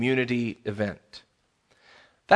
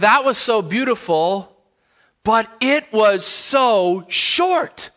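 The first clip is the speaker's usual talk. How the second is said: put-on higher, slow rich West African accent, long on short; 8 semitones higher, 4 dB louder, slower than usual. Pastor friend after the wedding, in a rich West African accent. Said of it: "that rich West African accent".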